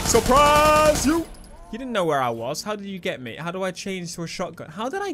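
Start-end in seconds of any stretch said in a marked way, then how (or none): 0.0-1.2 high, loud, very drawn out; stretched high holler; playful ambush shout. Pretend. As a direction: pounce with a long sing-song cry. Springing attack on enemy in game.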